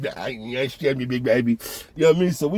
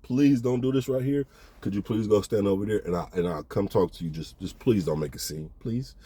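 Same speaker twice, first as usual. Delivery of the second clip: hushed pleading; 5 semitones lower, 6 dB quieter than usual. Retold or imitated. Zaza begging her not to make scene.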